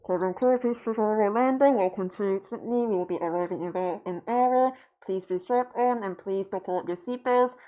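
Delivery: imitating an airline captain over the PA. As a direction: boom it out like a captain on the intercom. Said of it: "it's always like this".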